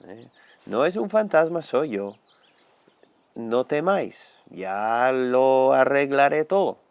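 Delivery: slow, calm reassurance; lightly voiced Jesus calming his friends; reassuring Lord. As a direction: comfort frightened disciples, unhurried. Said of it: "habló con ellos y les dijo".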